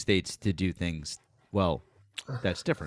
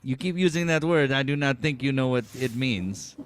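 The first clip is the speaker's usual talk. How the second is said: movie quote impression; 3 semitones higher than usual. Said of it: "in the words of, the Princess Bride".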